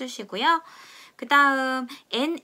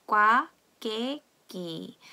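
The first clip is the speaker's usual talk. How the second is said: slow read-along; much slower than usual. Shown as a demonstration. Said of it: "같이 읽어볼게요".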